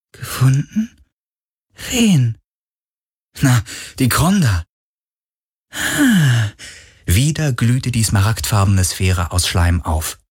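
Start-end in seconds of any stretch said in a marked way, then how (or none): 0.1-6.5 ghost voice. Acted. Ghost voice in dialogue.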